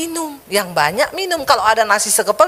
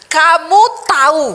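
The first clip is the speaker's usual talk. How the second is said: higher and louder, slower reproach; exasperated wife; 5 semitones higher, 4 dB louder than usual. Retold or imitated. Sarah telling Abraham about her age, mild exasperated reproach. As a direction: push the words at the husband. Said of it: "ayat itu bilang gini".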